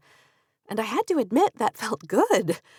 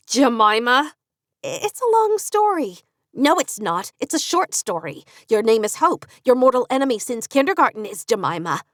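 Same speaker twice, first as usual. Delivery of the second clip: Katie voice; 5 semitones higher, 4 dB louder than usual. Acted. Narrator voicing Katie.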